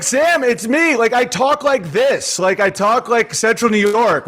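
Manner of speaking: lightly exasperated, insisting it's just how he talks; retold explaining. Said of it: "where I'm like".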